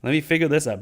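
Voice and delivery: mildly exasperated mock outburst; heated interruption. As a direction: imitate someone cutting in, pitch jumping up. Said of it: "heated mode and just talking over each other".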